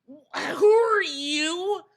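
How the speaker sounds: slow, mock-crying disbelief; stretched incredulous rant. Real, not acted. Ranting at Phil while watching him, slow outrage. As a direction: drag out each word, incredulous.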